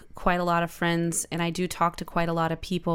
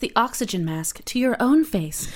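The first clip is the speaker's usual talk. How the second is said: flight attendant safety announcement voice; airplane voice; 5 semitones higher than usual. Acted. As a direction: recite it like cabin crew giving the oxygen mask briefing. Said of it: "That's my airplane voice".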